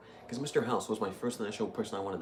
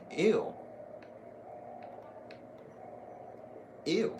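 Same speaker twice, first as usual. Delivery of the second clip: disgusted ew; 9 semitones higher, 3 dB quieter than usual. Real, not acted. Disgusted at shriveled body.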